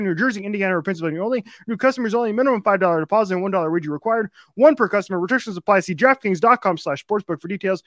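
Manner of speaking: rapid-fire ad read; auctioneer voice. Real, not acted. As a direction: rattle through the sponsor read fast. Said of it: "two minutes of me just going fifty thousand miles an hour".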